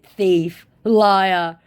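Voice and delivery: high, slow put-on insult; scammer's insult mocked high and drawn out. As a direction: stretch it out high and mocking.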